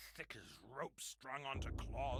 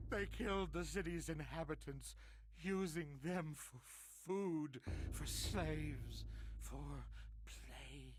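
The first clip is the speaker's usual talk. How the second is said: urgent; 3 semitones higher than usual. Acted. Urgent frantic account.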